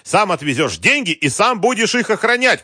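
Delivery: very high, loud, enraged yell; furious shouting. A narrator's reading. Wolf ordering the general to bring money, shouting. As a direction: shout back, stretching the furious words. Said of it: "крикнул Вольф".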